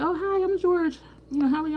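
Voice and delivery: high-pitched friendly stranger; high social-nicety voice; mock polite introduction. Acted introduction at a conference.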